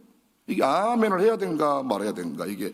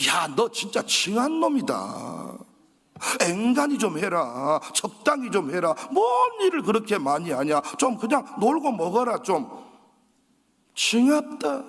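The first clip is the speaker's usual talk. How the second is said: slow, teasing Jeolla dialect scolding; Jeolla senior's scolding; 2 semitones higher than usual. Retold or imitated. Senior scolding the overworking pastor in Jeolla dialect. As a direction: nag him fondly in broad Jeolla speech. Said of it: "전라도 말로".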